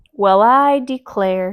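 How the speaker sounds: smiling. Acted. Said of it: "with a broad smile".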